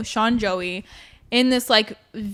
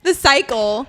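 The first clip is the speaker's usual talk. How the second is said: laughing, raw; 4 semitones higher, slower than usual. Real, not acted. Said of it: "this is me, Athena, raw, vulnerable".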